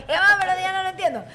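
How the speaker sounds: cracking up in disbelief; laughing. Real, not acted. Friend laughs, disbelieving the secret mall door story.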